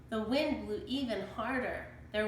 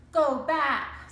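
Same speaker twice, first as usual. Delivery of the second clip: louder, higher parrot warning; 5 semitones higher, 8 dB louder than usual. A narrator's reading. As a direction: squawk a warning. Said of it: "said Polly".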